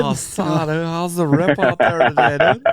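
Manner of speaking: laid-back surfer dude voice; surfer impression. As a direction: chill beach bro, rising at the end. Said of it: "Blake could do his surfer impression".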